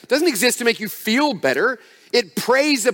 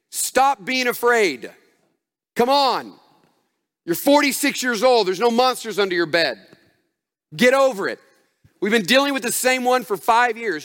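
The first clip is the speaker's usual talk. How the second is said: stern command. Retold or imitated. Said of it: "is he looking at you and saying".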